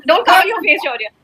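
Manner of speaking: normal talking voice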